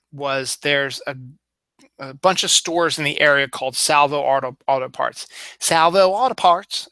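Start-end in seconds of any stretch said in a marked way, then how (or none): 5.6-6.9 put-on Baltimore accent. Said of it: "as Coach Buzz would call it".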